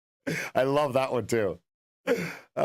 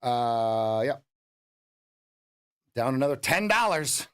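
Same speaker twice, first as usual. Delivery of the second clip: ordinary talk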